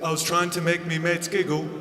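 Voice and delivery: put-on lightly done soft British accent; a hint of a mumbled British accent; a touch of quiet British accent. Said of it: "He's like".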